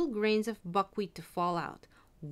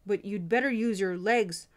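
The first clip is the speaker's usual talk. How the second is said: raised voice, urgent calling out; shouting; 3 semitones higher, 6 dB louder than usual. A narrator's reading. Soldier bargaining with the apprentice from his cell, shouting. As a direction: call down to someone in the street. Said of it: "shouted the soldier".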